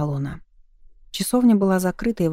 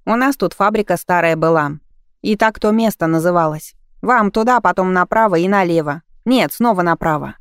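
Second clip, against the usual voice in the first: put-on loud teenage boy; 5 dB louder than usual. Boy giving directions loudly.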